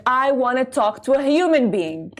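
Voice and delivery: slow, deliberate words to the robot line; slow, patient demand for a human; frustrated demand. Retold or imitated. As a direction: spell out each word to the machine. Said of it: "and I'd be like".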